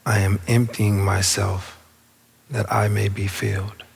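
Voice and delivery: unhurried meditation guide with long pauses; spacious, measured affirmation leading; guided meditation. Real, not acted. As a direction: guide them inward, phrase by phrase. Leads the affirmation.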